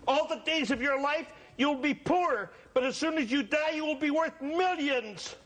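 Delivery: lightly voiced mystic fortune teller; a hint of a solemn seer. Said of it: "the fortune teller".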